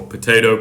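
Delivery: "potato" as po-TAY-to. Shown as a demonstration. Reciting the typical rhyme, "potato" as po-TAY-to. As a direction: say "potato" with a long a as in day. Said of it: "the typical".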